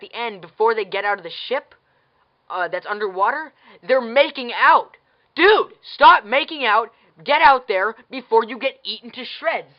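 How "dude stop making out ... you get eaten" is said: yelling at the screen. Real, not acted. Viewer yelling at on-screen lovers, exasperated. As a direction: talk to the characters like they can hear you.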